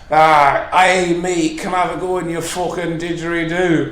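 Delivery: put-on rough Scottish bloke accent for a drunk stranger's request; mock Scottish accent asking for a go. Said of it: "That's my Scottish accent".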